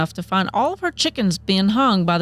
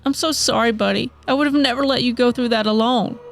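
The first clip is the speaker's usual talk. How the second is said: understated grief, pitched higher; breaking down; 4 semitones higher than usual. Acted. Misty talks to her dog's grave, breaking down mildly. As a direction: apologize tearfully to a lost pet, held back. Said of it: "falls to her knees and breaks down".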